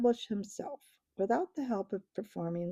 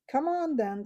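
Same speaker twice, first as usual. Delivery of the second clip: snarled; 6 semitones higher than usual. Acted. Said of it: "snarled Truffle Hunter".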